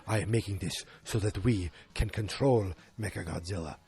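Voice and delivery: lightly voiced movie villain; a hint of scheming boss; big bad guy. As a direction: put on a measured bad-guy voice.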